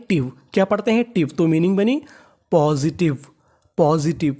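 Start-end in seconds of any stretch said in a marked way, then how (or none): 0.1-0.3 "टिव" said as one short "tiv"; teacher's demo of "टिव" as "tiv"; taught pronunciation. Shown as a demonstration. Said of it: "इसे पढ़ते हैं".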